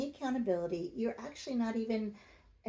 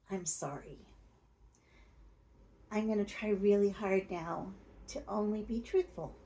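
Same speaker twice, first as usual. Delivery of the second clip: full sincere apology. Shown as a demonstration. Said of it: "if you put that all together, you would say".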